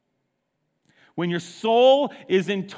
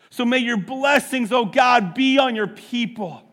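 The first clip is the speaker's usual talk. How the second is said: fervent preaching. Acted. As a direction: cry out the psalm with rising fire. Preacher's fervent psalm prayer.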